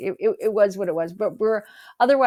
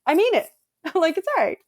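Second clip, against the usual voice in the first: higher, overly sweet reassurance; hammed-up gracious reassurance; mock forgiving; 8 semitones higher, 4 dB louder, faster than usual. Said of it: "or, like".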